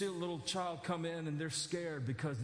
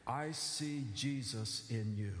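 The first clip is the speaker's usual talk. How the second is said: slow tender "I see Jesus in you"; Debbie's tender blessing; 4 semitones lower, much slower than usual. Retold or imitated. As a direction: bless the child gently. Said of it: "She says".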